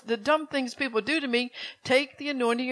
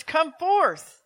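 loud, higher commanding call; crying out; 4 semitones higher, 4 dB louder than usual. Acted. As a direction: call the dead out of the grave. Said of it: "And he's crying".

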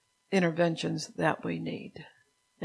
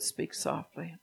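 "Speak softly." said much softer, almost hushed; spoken softly; 7 dB quieter, slower than usual. Shown as a demonstration. Preacher showing the congregation how to speak softly, hushed. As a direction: drop the voice right down to show it. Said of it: "where Jesus said".

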